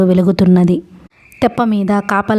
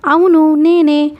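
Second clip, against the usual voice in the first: slow, higher, proud of himself; smug and pleased; 8 semitones higher, slower than usual. Acted. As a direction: savour the answer with a satisfied smile. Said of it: "తృప్తిగా చిరునవ్వు నవ్వుకుంటూ".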